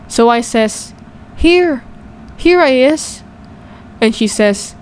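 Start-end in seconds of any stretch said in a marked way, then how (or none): 1.4-3.2 put-on high-pitched invisible child answering; higher, piping "over here" reply; child calling out. A narrator's reading. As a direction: call back from right there, pitched up. Invisible child calls out to mother.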